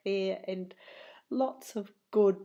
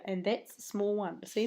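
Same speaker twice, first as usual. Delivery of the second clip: normal talking voice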